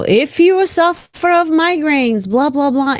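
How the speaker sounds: lightly mocked ad read. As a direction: send up a drug commercial. Mocking a TV drug ad.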